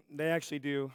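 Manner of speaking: hoarse, raspy throat; rough voice like a longtime smoker; smoker's rasp. Real, not acted. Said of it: "wow, I sound like I've been smoking for twenty years".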